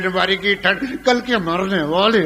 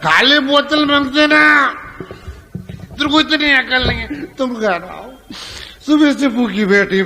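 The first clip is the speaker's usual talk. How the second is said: higher, louder scolding of a dim wife; a joking husband's raised scold; mock scolding; 7 semitones higher, 4 dB louder than usual. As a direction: tell her off like she has no sense.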